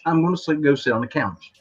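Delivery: "couch" as "kaunch" with the N. Retold or imitated. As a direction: end on "couch" sounding like "kaunch". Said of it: "that's how they pronounce it".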